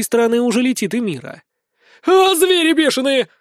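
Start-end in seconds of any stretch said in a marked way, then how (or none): 2.1-3.3 high, panicky shriek; frightened squeal. A narrator's reading. Woman fleeing her attackers, squealing in fear. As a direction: squeal in fear to drive them off. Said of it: "визжит бабища от страха".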